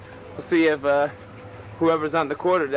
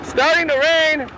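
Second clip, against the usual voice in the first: shouting over engine; 12 semitones higher, 5 dB louder, slower than usual. Real, not acted. Riding motorcycle, rain starts.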